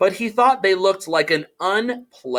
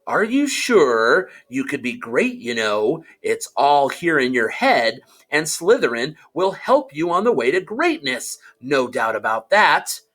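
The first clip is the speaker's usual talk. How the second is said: small voice. Acted. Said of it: "said the small voice".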